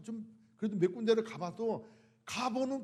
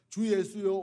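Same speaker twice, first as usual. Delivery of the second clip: loud plea; 6 dB louder than usual. Retold or imitated. Quoted comfortable prayer.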